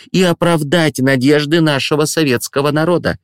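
high, proud ceremonial speech; proud headmistress. Acted. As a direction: swell with Soviet pride. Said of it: "с гордостью продолжал речь директор".

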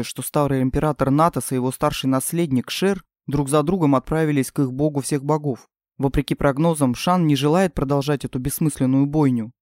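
a hint of a stern king. King's voice, lower.

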